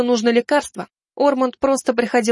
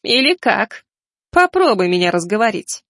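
mocking grin in the voice; sneering taunt. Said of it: "Хайнхар осклабился".

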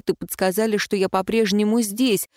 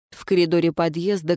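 normal talking voice

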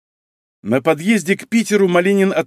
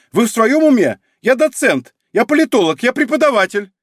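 much higher, louder indignant squeal; shrieked; 10 semitones higher, 5 dB louder than usual. A narrator's reading. Exposed con man protesting to the detective, shrieking. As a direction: squeal in outraged disbelief. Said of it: "взвизгнул мужчина".

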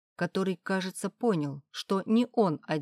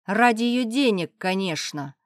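higher, louder spat-out accusation; hateful; 4 semitones higher, 6 dB louder than usual. Acted. Father accuses the husband of chasing money, hateful spit. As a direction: spit the words with hatred. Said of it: "с ненавистью выплюнул отец".

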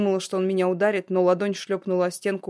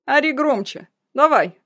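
higher, louder goading; taunting shout; 7 semitones higher, 7 dB louder, slower than usual. Acted. Oleg goads his ex-fiancée to yell louder, taunting shout. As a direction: dare her to scream.

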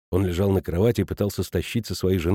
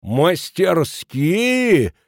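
stretched, higher astonished question; 6 semitones higher, 3 dB louder, much slower than usual. A narrator's reading. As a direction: drag out the word in disbelief. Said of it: "изумился Кранер".

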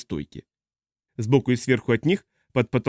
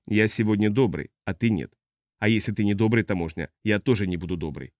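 put-on menacing drunk spacer; 3 semitones lower than usual. Tipsy giant warns customs officer, low and menacing.

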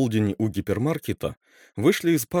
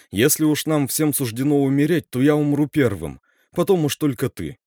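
горячо, громко; 4 semitones higher, 5 dB louder than usual. Acted. Макс спорит, настаивает.

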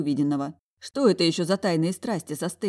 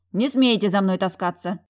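angry rebuff; 3 semitones higher, 6 dB louder than usual. Acted. Talya rebuffs the dragon.

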